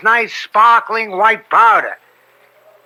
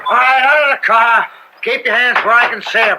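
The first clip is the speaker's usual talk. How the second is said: stern order; 4 semitones higher, faster than usual. Acted. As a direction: order him out of the car, no nonsense. Cop orders driver out of car.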